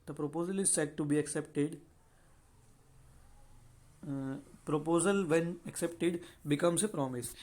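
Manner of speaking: slow, deliberate reading of the law text; slow statute reading. Acted. Teacher slowly reading the definition to students, measured and deliberate. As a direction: read the section out word by word for students. Reads the legal definition aloud.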